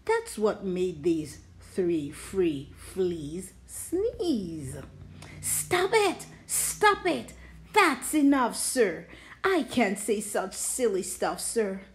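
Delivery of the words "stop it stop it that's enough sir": higher, frustrated cry of stop; fed up, cut him off; exasperated outburst. Acted. Knox fed up with twisters.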